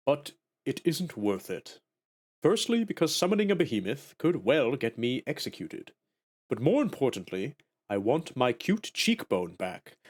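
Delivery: Greeth character voice. Acted. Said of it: "what kind of voice do I wanna give this guy".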